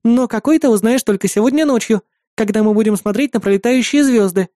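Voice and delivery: put-on high, sweet girl's voice; bright, eager to please her brother; eager little sister. Sister offering to cook whatever her brother wants, eager.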